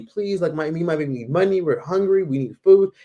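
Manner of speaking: high pleading, lightly voiced; begging mother. Scammer begging the tourist for food money, mildly high. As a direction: plead hunger to a stranger.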